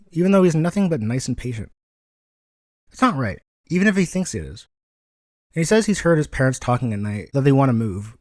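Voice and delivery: put-on a boy earnestly asking for help, pitch a little up; earnest young Izuku.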